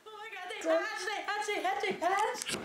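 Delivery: squealing excitedly, they hatched; thrilled squeal. Real, not acted.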